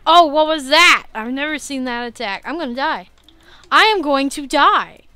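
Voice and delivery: loud, high panicked cries; panicked gamer dying; real panic. Real, not acted. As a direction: yelp in real alarm at a new attack. Panics at new boss attack.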